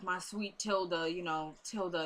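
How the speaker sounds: slow, soft, lightly voiced endearment; imitated fondness. Father fondly addressing the woman, slow and soft. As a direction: imitate a doting father, softly. Father doting on Tilda, retold.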